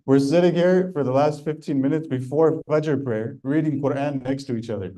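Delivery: amused disbelief, laughing as he recalls it; laughing while quoting. Retold or imitated. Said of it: "And I started laughing".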